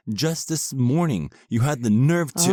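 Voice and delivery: building to an indignant accusation; rising anger. Acted. Wife snapping at her husband in couples counseling, rising angry. Wife's heated complaint building.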